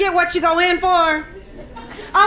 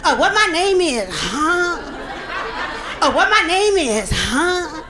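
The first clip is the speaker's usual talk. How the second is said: mimicking young dudes; slower than usual. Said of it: "don't they ask you the most redundant questions".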